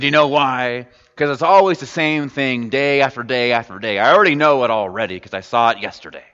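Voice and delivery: a hint of a blunt working man, dismissive; put-on plumber tone. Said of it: "I don't know why I'm doing this tone".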